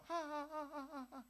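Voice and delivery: high, loud laughing reply; a jolly donor laughing on the phone; laughing caller. Retold or imitated. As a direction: laugh it off, brightly apologetic. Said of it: "Terus dia ketawa".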